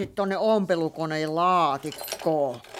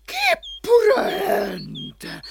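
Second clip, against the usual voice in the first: a slow, much higher wailing call; 12 semitones higher, much slower than usual. Acted. Hän huomaa kissan rapulla, slow high wailing call. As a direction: call the cat in alarm. Calling the hurt cat.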